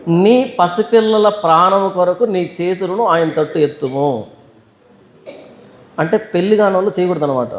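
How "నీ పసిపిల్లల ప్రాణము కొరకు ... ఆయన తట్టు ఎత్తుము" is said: slow, measured verse reading; scripture reading. Acted. Preacher reads the lament verse to the congregation, scripture reading. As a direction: read the verse slowly, stretching the phrase endings.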